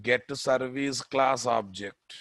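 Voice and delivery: slow, spelled-out dictation. Shown as a demonstration. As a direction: dictate each word slowly. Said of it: "dictating code slowly".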